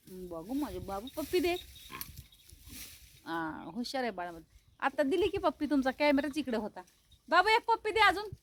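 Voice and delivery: soft pet talk. Real, not acted. Woman softly asking her dog Babu for a kiss, tender. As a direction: hush and sweet-talk the dog.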